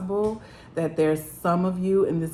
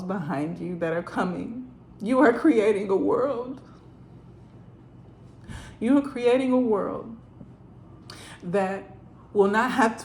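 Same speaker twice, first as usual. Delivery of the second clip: getting emotional; 3 semitones higher than usual. Real, not acted. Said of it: "and I'm getting emotional".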